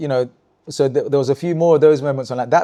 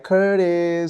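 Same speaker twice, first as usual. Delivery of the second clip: Cameron; 5 semitones higher than usual. Retold or imitated. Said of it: "he'd make people be like".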